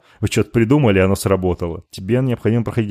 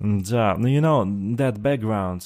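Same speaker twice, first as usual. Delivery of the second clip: light mock American accent, show-off returnee. Joking about coming back from America, mild put-on American accent. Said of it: "начну говорить с характерным акцентом".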